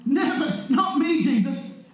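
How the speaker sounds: acted indignant protest; emphatic refusal in short bursts; emphatic denial. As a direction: deny it firmly, word after word. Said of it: "emphatic as he was".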